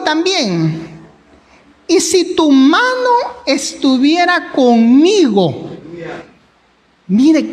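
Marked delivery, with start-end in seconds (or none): 1.9-5.7 tearful. Real, not acted. Pastor quoting prayer, crying.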